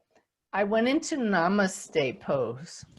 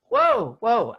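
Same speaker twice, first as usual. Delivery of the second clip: stopping herself; 6 dB louder than usual. Retold or imitated. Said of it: "I became aware".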